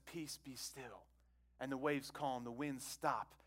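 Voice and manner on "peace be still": very soft, slow and low; hushed calming command. Retold or imitated. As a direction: quote a gentle stilling of the storm. Jesus calms the storm, retold.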